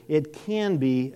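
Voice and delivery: weight the word "can"; deliberate emphasis on "can"; stress on CAN. Real, not acted. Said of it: "I stress the word can".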